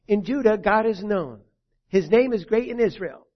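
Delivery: reading the psalm at full voice; proclaimed loud. Real, not acted. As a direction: declare it to the room.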